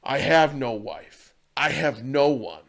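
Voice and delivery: put-on a touch of a sad drunk's confession; drunk man's lament. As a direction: let the loneliness weigh each word. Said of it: "the drunk man goes".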